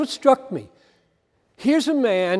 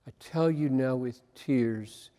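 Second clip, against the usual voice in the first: quiet repeat; 7 semitones lower, 8 dB quieter than usual. Shown as a demonstration. Preacher repeating the verse to himself, hushed and softer. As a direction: lower and much softer, turned inward. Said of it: "could not get away from".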